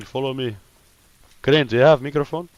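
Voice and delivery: ordinary talk, nothing marked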